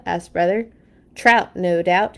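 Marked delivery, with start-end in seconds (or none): 1.2-2.2 slow, sure boast; supreme confidence. Acted. Papa answering Brother, slow and sure of himself. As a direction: say it like it's already caught. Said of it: "he answered with supreme confidence".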